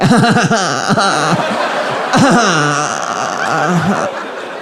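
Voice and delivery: hammed-up imitated politician's cackle; mock Kamala cackle. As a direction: put on a big, long mock laugh. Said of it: "if she's speaking for".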